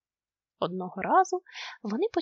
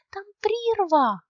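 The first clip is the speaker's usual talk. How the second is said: high, slow, louder warning; urgent warning; 8 semitones higher, 5 dB louder, slower than usual. A narrator's reading. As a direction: stretch out the alarm about the drop. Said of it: "скрикнув Нюхмумрик".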